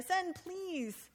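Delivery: pleading, then rushed; begging plea. Shown as a demonstration. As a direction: beg to be let off, hurrying the end. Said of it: "a little begging word in there".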